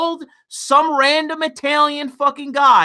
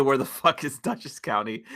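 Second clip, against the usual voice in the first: pretend video title; 9 semitones lower, 9 dB quieter than usual. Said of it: "Title the video".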